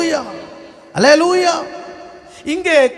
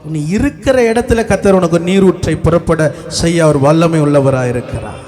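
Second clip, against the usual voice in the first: low, emphatic preacher's proclamation; preaching; 9 semitones lower than usual. Real, not acted. Preacher promising God will bring a spring, preaching. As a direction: proclaim it low and firmly, falling at the end.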